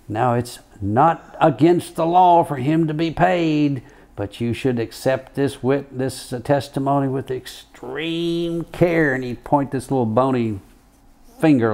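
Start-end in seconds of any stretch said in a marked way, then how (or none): 0.1-9.1 lightly higher, slow judge voice with pauses; a hint of a pointed judge drawing out chiropractor; imitating the judge. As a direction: judge warning the jury about the paid chiropractor. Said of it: "and he says".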